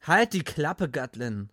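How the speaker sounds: loud firm shut-down. Acted. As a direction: cut him off firmly. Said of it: "sagte ich bestimmt".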